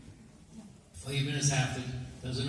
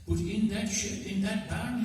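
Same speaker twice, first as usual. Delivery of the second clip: raised, higher put-on voice for the fussy guest; guest's voice; 8 semitones higher, slower than usual. Guest at the farmer's door objecting, higher voice. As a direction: play the guest politely objecting.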